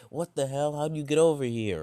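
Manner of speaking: high, startled yelp; shocked outburst. Retold or imitated. Friends startled by sudden teleport, shocked yell. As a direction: jump out of your skin, loud.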